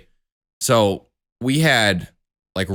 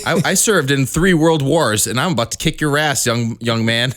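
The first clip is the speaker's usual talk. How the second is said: put-on higher, slowed threat from a cranky old soldier; old veteran; 3 semitones higher than usual. Playing the old casino grump threatening a young man, hammed-up. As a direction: puff up like a grumpy old vet picking a fight.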